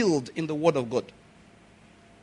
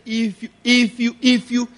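wife's warning; 5 semitones higher than usual. Retold or imitated. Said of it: "eh, the wife said".

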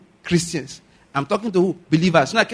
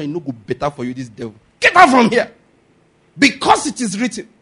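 vexed rebuke; 5 dB louder than usual. Retold or imitated. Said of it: "that quotation was with vexation".

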